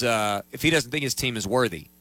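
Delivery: choking mid-sentence, words strained; choking on a drink. Real, not acted. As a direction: voice catching on a swallow. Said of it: "Excuse me, I'm choking now".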